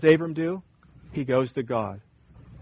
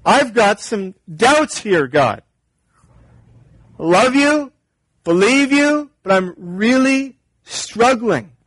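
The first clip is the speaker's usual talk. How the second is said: higher, pleading plea to God; open and honest; 4 semitones higher than usual. Retold or imitated. Preacher voicing an honest prayer, pleading. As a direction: confess the doubt earnestly to God. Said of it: "open and frank and honest with God".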